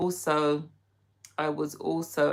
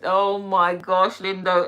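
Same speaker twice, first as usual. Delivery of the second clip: excited; 3 semitones higher, 6 dB louder, slower than usual. Real, not acted. Reacting to viewer's patois.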